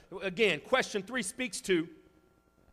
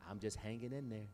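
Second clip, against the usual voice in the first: mocking weak phrase; 9 semitones lower, 11 dB quieter than usual. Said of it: "Here's another top ten".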